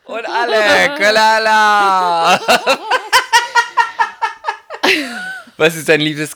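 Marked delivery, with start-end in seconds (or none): 0.0-2.4 high, laughing carnival shout. Real, not acted. Drunken carnival cry, laughing. 2.5-5.5 giddy shrieking laugh. Real, not acted. Drunken laugh.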